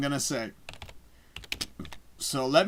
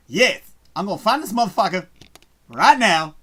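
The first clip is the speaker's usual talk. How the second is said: determined; 3 semitones higher, 7 dB louder than usual. Real, not acted. Determined to find the show.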